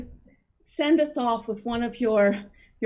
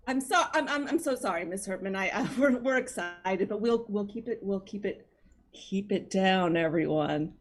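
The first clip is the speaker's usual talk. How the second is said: soft, halting, sheepish; hushed apology; 4 semitones lower, 6 dB quieter, faster than usual. Acted. Host apologising to the scolding librarian, hushed. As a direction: drop the volume and stumble through the apology.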